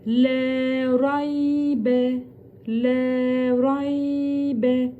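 raybe with a thick, heavy R; Le raybe slow, R kept thick. Shown as a demonstration. Teacher showing the thick Ra to students. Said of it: "Burada kalın".

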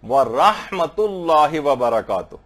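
slow, careful Arabic recitation of व रहमतुल्लाह व बरकातुहू; correct recitation. Shown as a demonstration. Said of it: "सही बात पढ़ने से".

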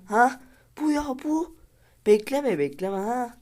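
high-pitched loud urging; high shriek. Real, not acted. Gamer shrieking at his player to shoot now. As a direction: squeal at him not to wait.

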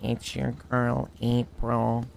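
softly mocking girl voice; April impression. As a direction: imitate a girl sweet-talking someone. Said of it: "I, don't sound".

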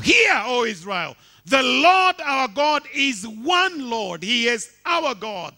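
loud, slow proclaimed scripture; preaching at full force. Acted. Preacher proclaiming Deuteronomy to the congregation, loud and slow. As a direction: thunder the verse out. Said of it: "preaching scripture at full force".

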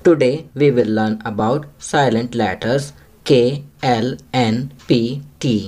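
very slow, word-by-word English read aloud; slow classroom reading. Shown as a demonstration. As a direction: read it slowly for young pupils to follow. Reads English slowly to pupils. (बच्चों के लिए बहुत धीरे-धीरे अंग्रेज़ी पढ़ना)

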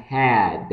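"Had" with a long vowel and final D; drawn-out HAD. Shown as a demonstration. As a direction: stretch "Had", close it on D. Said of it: "cái từ này kéo dài ra nhé". ("Had" kéo dài, kết thúc bằng âm D)

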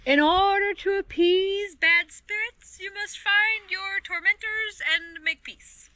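slow, high, grand proclamation; calling out with authority. A narrator's reading. Penduli pronouncing terms to the creatures, calling out with authority. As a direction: project it slowly like a spirit's decree. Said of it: "Penduli called out with authority".

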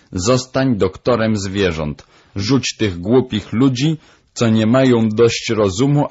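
high, emphatic parrot voice; insistent parrot. Acted. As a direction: urge him on like a bossy bird. Narrator voices the parrot Polinezja.

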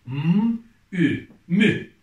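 loud, drawn-out syllable reading for the class; reading syllables aloud. Shown as a demonstration. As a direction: sound out each letter clearly, then blend them loudly. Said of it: "Sonra bir Ü ekledik".

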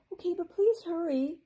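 high urgent fairy plea; fairy calling. A narrator's reading. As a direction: call out urgently from the shell. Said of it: "Amber called".

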